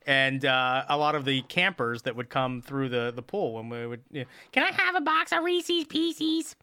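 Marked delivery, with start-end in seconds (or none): 4.5-6.6 "Reese's Pieces" mit gedehntem, überdeutlichem Ree-ses, hoch gesprochen; overpronounced Reese's. Retold or imitated. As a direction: say "Reese's Pieces" higher, slow and overcareful. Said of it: "that's how they would talk".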